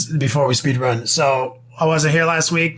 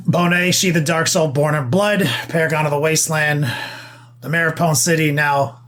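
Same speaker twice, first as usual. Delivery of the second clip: mock epic proclamation. A touch of epic herald hailing Bonet as purse snatcher's bane.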